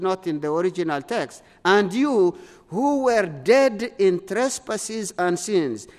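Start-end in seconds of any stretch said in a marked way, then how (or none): 1.6-5.9 slow reading, leaning on "dead"; stress on dead. Shown as a demonstration. Preacher reading the verse to his congregation, stressing "dead". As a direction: press the word "dead" as the key word. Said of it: "I just emphasize the word dead there".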